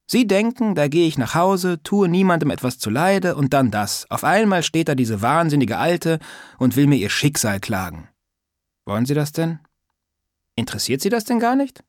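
put-on a prying old lady scolding lightly; old woman's voice. Old neighbour teasing Sascha about manners, lightly voiced old woman.

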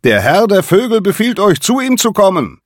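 high, loud, strange bird-like call; eerie, high-pitched falcon summons. A narrator's reading. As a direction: cry out like a falcon that speaks too humanly. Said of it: "rief der Erste mit einer Stimme".

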